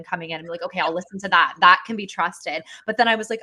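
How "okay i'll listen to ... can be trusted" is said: a hint of a grand narrator deciding what can be trusted; Morgan Freeman narrator voice. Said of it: "narrator voice of, like, Morgan Freeman".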